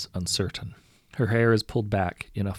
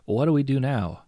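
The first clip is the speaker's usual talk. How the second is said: high, loud worried question; crewman's raised, uneasy voice; anxious crewman; 5 semitones higher, 6 dB louder than usual. A narrator's reading. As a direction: ask the captain, pitched up and urgent. Crewman asks the captain.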